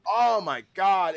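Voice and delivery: high, loud, slow oh my God; excited. Real, not acted. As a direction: gush with hype, drawn out. Hyped about upcoming movie.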